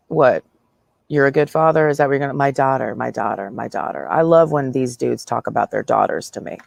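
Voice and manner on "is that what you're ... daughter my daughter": repeating "my daughter" fading away mockingly; mock daughter line.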